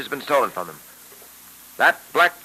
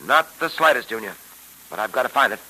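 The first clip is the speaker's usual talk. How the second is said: put-on old radio show. Old-time radio drama episode.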